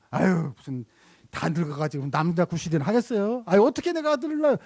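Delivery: sneering, fast at the end; mock a wife's scornful jab; scoffing mockery. Shown as a demonstration. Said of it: "이런 거 아니에요". (비웃는 아내 흉내)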